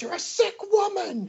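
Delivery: very high, slow, stretched-out shriek. Retelling a scene for the others, imitating Julie Summers screaming. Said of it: "That's what she was screaming at her".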